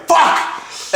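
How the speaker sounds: sharp high-pitched expletive; sudden high yelp of a swear; exclaimed curse. Retold or imitated. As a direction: burst out with a frustrated curse. Retells cursing as he drove past.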